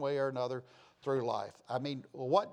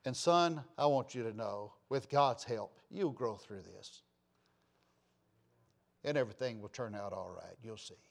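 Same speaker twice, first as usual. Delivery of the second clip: gentle father; 4 semitones lower than usual. Retold or imitated. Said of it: "and said, Listen".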